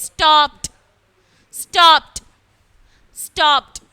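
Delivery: loud, separate drill of സ്റ്റോപ്ഡ് as "stopt"; each സ്റ്റോപ്ഡ് one falling syllable ending on a crisp T. Shown as a demonstration. Teacher drills students by repeating, സ്റ്റോപ്ഡ് with a T ending. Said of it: "ടി പോലെ പറയണം".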